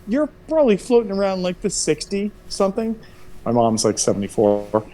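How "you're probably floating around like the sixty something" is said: mock casual guess. Son guessing mom's age.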